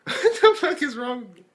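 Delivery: high, loud exclamation; self-mocking disbelief. Real, not acted. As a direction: cry out in exasperation at yourself. Laughing exasperation at own outburst.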